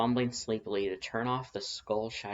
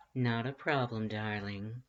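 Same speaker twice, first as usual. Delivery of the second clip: purring; slower than usual. Acted. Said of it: "Lust purred".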